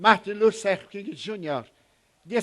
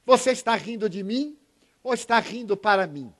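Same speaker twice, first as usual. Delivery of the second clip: higher, insistent questioning of a stranger; grumpy man again; 4 semitones higher than usual. Retold or imitated. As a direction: press him, half accusing. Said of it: "E ele novamente".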